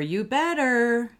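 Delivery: slow, loud warning; stern parent threat, drawn out; threatening tone. Shown as a demonstration. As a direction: lean into it like a threat. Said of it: "We don't wanna be using those kinds of tones".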